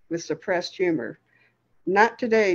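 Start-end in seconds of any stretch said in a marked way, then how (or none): 1.8-2.5 amused. Acted. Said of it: "Death said".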